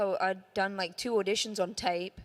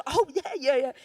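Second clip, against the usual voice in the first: higher, louder eager yeahs; flustered excitement; 7 semitones higher, 6 dB louder than usual. Retold or imitated. Actress reacting to the producers' excitement, flustered and eager. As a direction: nod along, caught up in their buzz. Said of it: "they were so excited that I just".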